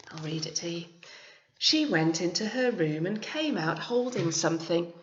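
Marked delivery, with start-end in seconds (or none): 1.6-4.9 story narration. A narrator's reading. Reads picture book aloud.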